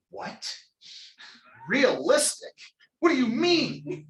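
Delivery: high, slow incredulous what; a disbelieving husband, half laughing; mock disbelief. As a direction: act out stunned disbelief, laughing. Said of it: "all of a sudden I went".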